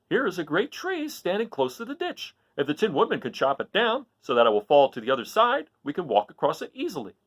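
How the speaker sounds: high, light Scarecrow voice. Acted. The Scarecrow suggests chopping the tree, high voice. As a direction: brightly pitch the idea up.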